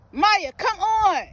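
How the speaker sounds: loud, slow coaxing call; calling the dog. Real, not acted. Owner coaxing her stubborn dog to come, loud.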